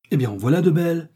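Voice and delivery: high-pitched retort from a cook; indignant exclamation. A narrator's reading. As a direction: exclaim it high, with a swooping tune. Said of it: "s'écria Betty". (exclamation indignée, voix plus aiguë)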